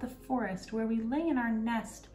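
high, slow bird voice cooing its tale; a wood pigeon cooing its news. Acted. Wood pigeon tells the robber girl about Kay, high cooing bird voice.

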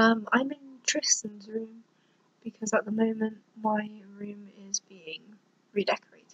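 hushed, soft-spoken whisper. Real, not acted. Vlogger whispering late at night about her room. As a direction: keep it hushed, half breath. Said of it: "if you wonder why I'm whispering".

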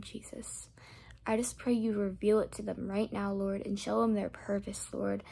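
earnest spoken prayer. Real, not acted. Speaker praying aloud over each viewer. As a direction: pray over them from the heart.

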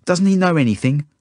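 high, loud upset protest; tearful. A narrator's reading. Zelda complaining about the kid, tearful. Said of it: "she says tearfully".

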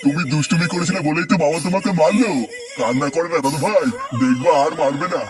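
put-on grandfather comforting a crying child; soothing. Grandfather consoles beaten grandson, soothing. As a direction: gently coax the child out of tears. কান্না করে না.

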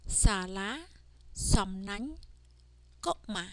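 Sala, som nang, go ma read slowly one by one; Khmer words read again. Shown as a demonstration. Teacher rereads Khmer words to students, clear. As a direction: read the three Khmer words as a review list. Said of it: "let's read these words again".

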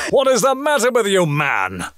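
exasperated. Retold or imitated. Exasperated at own recording.

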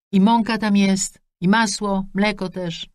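high, chatty mother rattling off wishes; a pushy mum beaming down the line; mother on the phone. Acted. Mother's voice echoes on.

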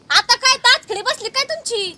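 slow, scolding yell at a partner; cutting, slowed-down telling-off; angry scolding. Acted. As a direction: demand an answer, drawing the words out. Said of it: "अरे, मग अशी का ओरडती?".

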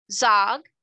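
high, loud questioning; puzzled surprise. A narrator's reading. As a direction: pipe up, startled and curious. Girl startled by an unknown name.

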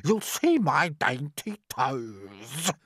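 high, slow, showy verse; vain aunt. A narrator's reading. Aunt boasting of her dainty toes, vain and high. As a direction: draw out each boast in a high voice.

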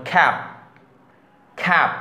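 খ্যাপ with puffed k and unaspirated final p; isolated model word খ্যাপ, closed off on a plain p. Shown as a demonstration. Teacher showing word-final p, খ্যাপ ending plain. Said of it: "প এর মতন উচ্চারণ করব".

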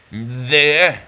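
"There" drawn out to almost two syllables; stretched syllable. Shown as a demonstration. Host counting syllables, "There" stretched towards two. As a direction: pull "There" into a beat and a half. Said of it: "it's almost two, that's like one and a half".

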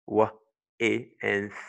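W, E, TH sounded one by one; separate phonemes. Shown as a demonstration. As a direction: sound out W, E, TH with pauses between. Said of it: "because T H has one sound".

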